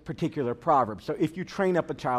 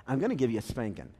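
low, quiet warning from the dad; understated fatherly threat, kept down; mild dad threat; 5 semitones lower, 5 dB quieter, faster than usual. Retold or imitated. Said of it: "Dad says".

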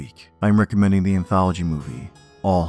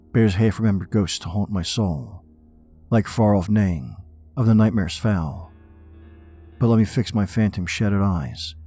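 dramatic poem reading; 3 semitones higher than usual. Acted. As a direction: read it like a haunted man.

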